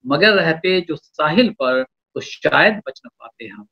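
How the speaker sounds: slow measured couplet delivery; poetry recitation. Acted. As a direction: lean into each line of verse.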